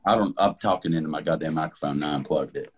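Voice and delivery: muffled, like talking underwater; fishbowl sound. Real, not acted. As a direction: voice through a fishbowl. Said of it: "You sound like you're in a fishbowl right now".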